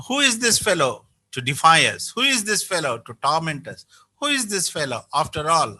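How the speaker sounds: mildly scornful who-is-this challenge; lightly voiced bold defiance; understated indignant questioning; defiant attitude. Shown as a demonstration. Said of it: "that's the tone. That's the attitude".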